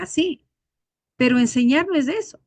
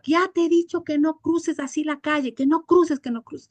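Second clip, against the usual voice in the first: raised-pitch mock scolding, insistent repeats; imitated scolding; 4 semitones higher than usual. Neighbour scolding his little son over crossing, imitated telling-off. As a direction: imitate a parent telling off a child. Father scolding child while hitting him.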